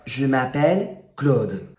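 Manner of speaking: "Je m'appelle Claude" said in careful French; French pronunciation. Shown as a demonstration. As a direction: model "Je m'appelle Claude" for a student again. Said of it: "let's just try it again".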